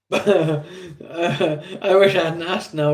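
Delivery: talking through a laugh. Real, not acted. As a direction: laugh while regretting the question. Laughing at the name just given.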